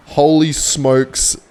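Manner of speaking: slow, loud amazed exclamation; drawn-out holy smokes. Real, not acted. Amazed at the play.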